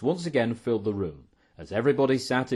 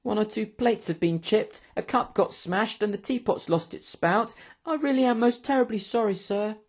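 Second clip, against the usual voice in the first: put-on high-pitched, apologetic young waiter; nervous; 11 semitones higher than usual. A narrator's reading. Waiter listing breakages to his angry boss, nervous. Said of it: "biting his nails nervously".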